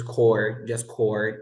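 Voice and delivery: core said with nothing after the R; silent P and S. Shown as a demonstration. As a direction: end core on the R, no P or S. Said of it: "We don't pronounce the P S".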